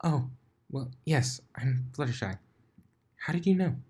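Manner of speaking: shy Fluttershy. Acted. Fluttershy answering Blitz, soft and timid. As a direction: answer meekly, surprised.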